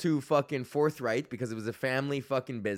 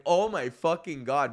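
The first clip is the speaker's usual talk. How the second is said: slow dawning realization; 2 semitones higher than usual. Retold or imitated. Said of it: "then I finally got it".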